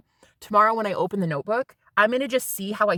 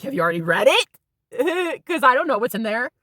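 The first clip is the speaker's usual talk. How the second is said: nervous inner voice; 3 semitones higher, 4 dB louder than usual. Retold or imitated. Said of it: "I was already thinking".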